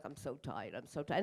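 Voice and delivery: low, drained and soft moan; exhausted moan. Retold or imitated. All day long to herself, a drained mumbling moan. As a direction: droop through it, worn out. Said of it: "all day long, I'm like".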